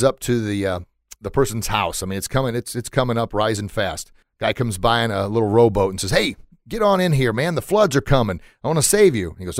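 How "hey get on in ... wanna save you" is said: lightly acted shout from a boat; higher-pitched, hammed-up urging; calling out to rescue. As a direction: call over as a would-be rescuer. Rescuer calls from rowboat.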